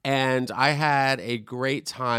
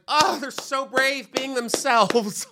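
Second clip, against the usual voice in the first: high, slow, gushing praise; mock earnest onlooker; 11 semitones higher, slower than usual. Mocking strangers who praise the kissing couple, high slow gush. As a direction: gush like a patronising fan. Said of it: "people are just like".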